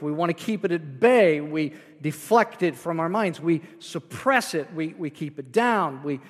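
ordinary delivery

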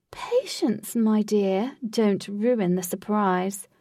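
lightly voiced theatrical host; proud showman tour guide; grand host voice. The host teasing Katie.

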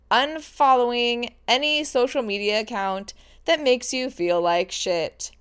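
lightly sports-announcer delivery; a hint of sports announcer. Real, not acted. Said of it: "I feel like that was, like, a, a sports announcer".

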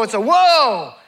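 a loud, amazed WHOA. Shown as a demonstration. Preacher shouting the fourth answer, loud whoa. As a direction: belt out the whoa like your mind's blown.

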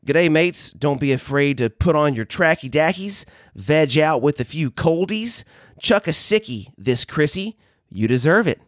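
lightly put-on Australian accent. Host repeating his slang message to explain it, Australian accent. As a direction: repeat it in a mild Aussie accent. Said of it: "in my best Australian accent".

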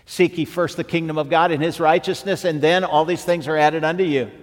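ringing scripture quote; preaching scripture. Acted.

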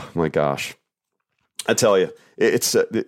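ordinary delivery

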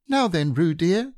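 put-on a mother calling her baby to bed; Kanga's voice.

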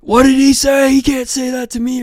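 high-pitched imitation, fading in volume; mock indignant protest. Offended guy arguing with the dad, high mock protest.

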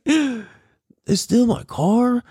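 high, slow, laughing question; laughing disbelief. Retold or imitated. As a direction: giggle through the disbelief. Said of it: "I was just fucking like".

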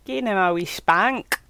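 put-on a light Scottish accent on "wee spank". Scottish accent suggesting a spank for Ned. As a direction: say it like a stern Scot, lightly. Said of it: "I didn't expect the accent".

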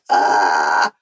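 low, loud "aah" of revulsion; guttural recoil from a creepy sight; shuddering groan. Retold or imitated. Storyteller recalling a hairy tarantula, shuddering groan.

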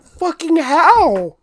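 high, slow disbelieving "Fucking how?"; astonished. Retold or imitated. Asking mom how she gets away with it, slow and astonished. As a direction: stretch it out in disbelief. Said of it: "I'm like".

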